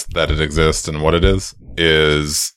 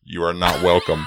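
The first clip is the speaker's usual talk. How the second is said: mock shout. Banishing the Russian character.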